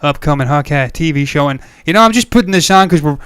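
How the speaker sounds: emphatic, hammed-up American accent; put-on American accent. Host practising accents after listener comments, put-on American accent. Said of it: "we're practicing accents here".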